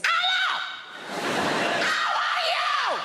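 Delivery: hammed-up loud greeting; loud Mediterranean greeting. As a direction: blast the greeting like a loud Spanish mum. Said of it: "She's got one volume. It's like this".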